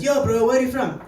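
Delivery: badly faked Indian accent on a familiar question; attempted Indian accent. Classmate asking the comic his origins, badly faked Indian accent. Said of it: "I can't do a good Indian accent".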